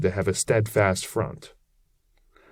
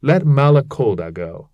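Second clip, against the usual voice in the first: crowd crying out; 4 semitones higher, 5 dB louder than usual. A narrator's reading. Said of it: "They all cried out".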